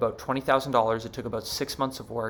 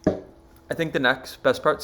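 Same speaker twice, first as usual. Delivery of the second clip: speaking between sips of water; while drinking water; 3 semitones higher, 4 dB louder, slower than usual. Real, not acted. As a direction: talk with a mouthful of water. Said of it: "sorry, I'm drinking water".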